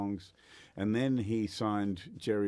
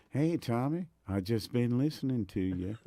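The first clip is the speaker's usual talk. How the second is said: put-on East Tennessee accent; 3 semitones higher than usual. Guitar hero greeting a young fan, imitated East Tennessee accent. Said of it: "He's got that East Tennessee accent".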